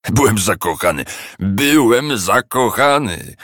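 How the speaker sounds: slow mocking singsong echo; mocking mimicry. A narrator's reading. Scrooge mimicking his nephew's reply, mocking. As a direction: parrot him with scorn. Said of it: "przedrzeźnił go Scrooge".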